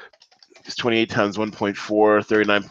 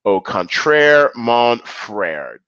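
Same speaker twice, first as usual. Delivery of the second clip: mock French flourish; 2 semitones higher, 3 dB louder, much slower than usual. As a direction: toss off a hammed-up French phrase.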